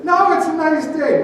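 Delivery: high, bouncy, loud and cheerful; spring it out like Tigger. Acted. Preacher as Tigger cheering up a gloomy friend, bouncy. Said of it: "But I was Tigger".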